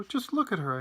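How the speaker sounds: mildly aghast; dismayed cry. A narrator's reading. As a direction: urge them to look. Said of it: "cried J-, Grandpa Joe".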